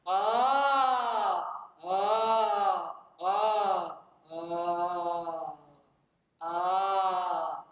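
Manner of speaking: full, loud chest voice ahs; chest-register "ah" vocal demo. Shown as a demonstration. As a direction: sing out from the chest, loud and resonant. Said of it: "putting your hand right here on your chest and saying".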